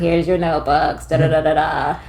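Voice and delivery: mock monotone, trailing into rote filler; monotone teacher. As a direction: drone through it in a light teacher imitation. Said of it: "he had a very monotone voice".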